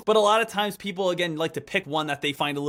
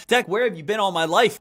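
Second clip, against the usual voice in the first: a slightly louder plea, still close to own voice; pleading viewer; 4 dB louder than usual. Pretend. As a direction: start the mock plea lightly. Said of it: "pretend viewer addressing Deck".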